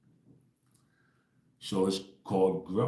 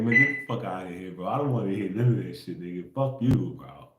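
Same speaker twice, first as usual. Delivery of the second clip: louder, blunt brush-off; loud dismissal; 5 dB louder than usual. Retold or imitated. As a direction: push it away loudly, fed up. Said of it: "I be like".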